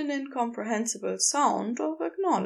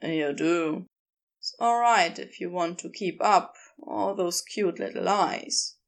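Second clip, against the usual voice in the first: lightly voiced low character, teasing kindly; understated low, indulgent character voice; Crowley, fondly frank; 4 semitones lower than usual. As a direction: concede it fondly in a slightly lowered voice.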